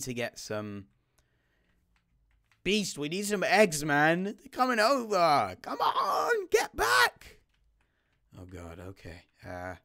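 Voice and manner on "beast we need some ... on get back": loud, rising panicked yell; urgent shouting. Real, not acted. Enemies close in on teammate, very high panicked shout.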